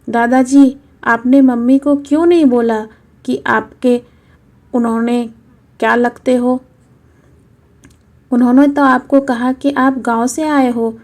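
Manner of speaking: a hint of a hurt little boy asking why; little boy questioning grandpa; young grandson. Child grandson voice.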